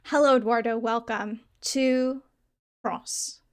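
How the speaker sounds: put-on commit to a hammy French accent; bad French accent. Streamer greets a viewer, committed bad French accent. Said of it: "in a bad French accent".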